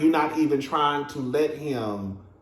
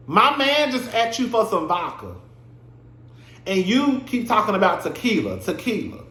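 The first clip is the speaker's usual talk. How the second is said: mock lecture; 4 semitones higher than usual. Real, not acted. Ranting at TV show person.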